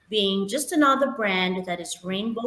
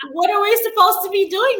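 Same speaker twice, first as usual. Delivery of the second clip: laughing; 11 semitones higher, 8 dB louder, faster than usual. Real, not acted. Laughing after the duck impression.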